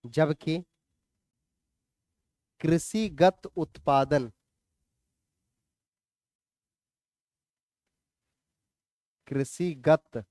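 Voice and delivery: measured, level dictation with long pauses. Acted. Teacher dictates notes for students to write, measured dictation. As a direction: read it out phrase by phrase for note-taking.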